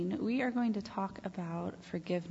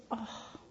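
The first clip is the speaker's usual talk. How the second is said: heartbroken oh; 3 semitones higher, 8 dB quieter than usual. Shown as a demonstration. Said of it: "your heart goes".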